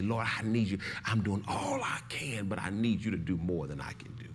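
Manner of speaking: low, softened retold prayer; burdened plea. Preacher recalling his prayer under family pressure, subdued burdened plea. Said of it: "I felt so much pressure".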